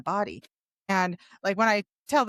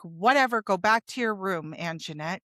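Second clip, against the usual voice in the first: dismissive. Retold or imitated. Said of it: "the psychiatrist just dismissed me".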